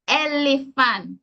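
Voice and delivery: ELEPHANT with no final t, elifen; Jamaican pronunciation. Shown as a demonstration. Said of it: "That's your pronunciation".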